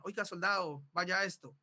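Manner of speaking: firm, sure command voice; firm order. Shown as a demonstration. Teacher demonstrating a firm soldier's command. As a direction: give the order with full authority. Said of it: "una voz segura, firme, de dar una orden".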